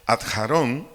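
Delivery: adjarón with its final O stressed. Shown as a demonstration. Repeating the Hebrew word for the congregation, stressing the final O in adjarón. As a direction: land on the last syllable of adjarón. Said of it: "acento en la O".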